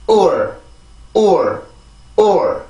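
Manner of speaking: or as a stressed, falling oor with final r; rhythm drill. Shown as a demonstration. Teacher drilling the rhythm before adding T, rhythm drill. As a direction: say or as one falling beat. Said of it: "자, 리듬이에요".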